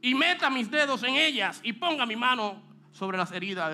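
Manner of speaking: emphatic refusal. Acted. Acting Thomas's emphatic refusal.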